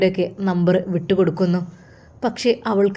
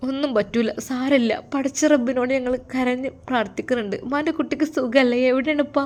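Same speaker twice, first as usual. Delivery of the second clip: higher-pitched, emotional phone voice; lightly voiced anxious mother; 5 semitones higher than usual. Mother questions her daughter about the Arab's house, anxious. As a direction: fret tenderly over a faraway child.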